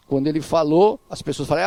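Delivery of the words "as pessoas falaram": normal talking voice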